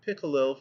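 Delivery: "pickalel", pickerel with L sounds for its R. A narrator's reading. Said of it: "could rarely sound the letter R, but used L".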